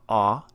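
"ah" as a back father vowel, rising; contrasting wrong vowel. Shown as a demonstration. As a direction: say "ah" further back, tune lifting. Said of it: "it's not ah".

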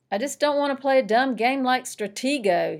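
put-on boy refusing his sister's game, annoyed; angry retort. A narrator's reading. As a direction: snap it back at her.

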